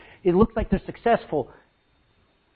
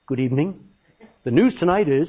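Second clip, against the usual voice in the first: lightly imitated TV anchor, lower; hint of the evening-news read; newscaster voice; 5 semitones lower than usual. Preacher imitates his newscaster friend on camera, lightly voiced anchor. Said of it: "he was able to talk like that".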